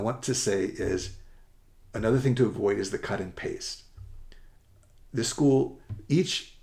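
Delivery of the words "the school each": rushed stumbling stutter. Real, not acted. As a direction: stammer under time pressure. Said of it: "I'm stuttering here because I'm out of time".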